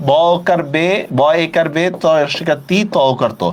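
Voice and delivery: ব্যতীত broken into pieces with rounded final "to"; teacher dictating each syllable, falling on the last ত; pronunciation spelled out. Shown as a demonstration. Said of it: "উচ্চারণ কিভাবে করব?".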